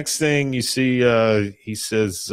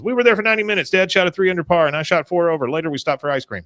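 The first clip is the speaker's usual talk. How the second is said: robotic retelling; 6 semitones higher, faster than usual. Retold or imitated. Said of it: "he's just robotically telling this story".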